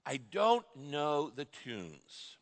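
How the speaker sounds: understated, slow excuse-making; excuse-maker. Acted. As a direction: drag it out like a reluctant churchgoer. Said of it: "the third excuse that people give".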